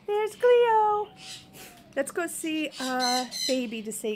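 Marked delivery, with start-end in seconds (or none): 0.0-1.1 delighted gasp of discovery; gasp, then say it brightly; surprised gasp. Real, not acted. Excited discovery of the bird.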